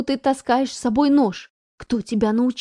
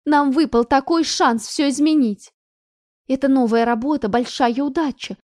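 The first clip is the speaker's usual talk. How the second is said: pleading; 3 semitones higher, 4 dB louder than usual. Acted. Mother pleading with daughter.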